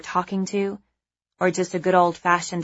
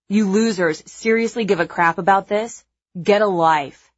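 contemptuous; 4 dB louder than usual. Acted. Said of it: "his contemptuous voice cuts across".

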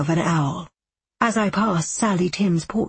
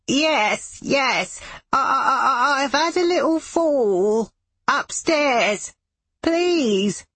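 put-on high, tearful frail old man pleading; shaky old man voice; 6 semitones higher, slower than usual. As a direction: beg for help like a fallen old man. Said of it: "Fred Pink's elderly, shaky voice".

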